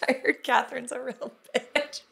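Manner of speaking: giggling through the gossip; laughing. Retold or imitated. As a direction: laugh as you blurt it out. Retelling her loud gaffe.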